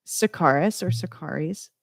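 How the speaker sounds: first the name as "suh-KAR-iss", then as "suh-KAR-eez"; both pronunciations offered. Shown as a demonstration. Radio host introducing the band, the name said both ways. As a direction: give the band name two endings, "-iss" or "-eez". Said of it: "however you wanna say it".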